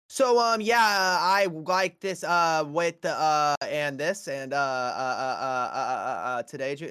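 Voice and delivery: halting, stretched-out stammer with filler uhs; mock stuttering presentation; imitating a stutter. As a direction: stammer through it, slow and stuck. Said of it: "and you'd sound like that".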